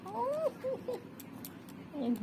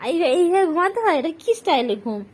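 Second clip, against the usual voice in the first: 1 amused surprise; 5 semitones higher, 8 dB louder than usual. Real, not acted. Surprised at pet's pose.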